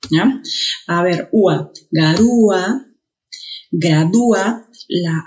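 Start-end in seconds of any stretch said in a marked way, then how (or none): 1.9-4.7 garúa, gradúa with a forceful Ú-a; stress on the ú. Shown as a demonstration. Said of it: "se puede pronunciar con mayor intensidad".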